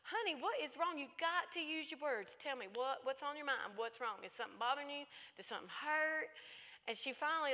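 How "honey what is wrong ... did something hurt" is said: put-on higher-pitched pleading with a crying child; coaxing mother. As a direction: coax the upset child to talk. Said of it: "she was just boo-hooing".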